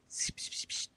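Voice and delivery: imitated whispering, very soft and voiceless; Libby. Streamer mimicking the girl on the recording, whispering. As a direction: whisper little hushed psst sounds. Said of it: "Libby's whispering and then breathing".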